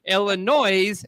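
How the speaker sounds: "Illinois" slowly, ending in "noise"; tourist's Illinois, S sounded. Shown as a demonstration. Showing the tourist's mistake, "Illinois" ending "noise". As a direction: draw out "Illinois" with its S pronounced. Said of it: "Then you know you're a tourist".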